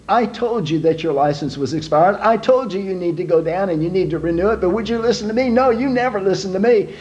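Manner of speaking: high, scolding nag; nagging wife. Acted. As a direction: nag him like a fed-up wife.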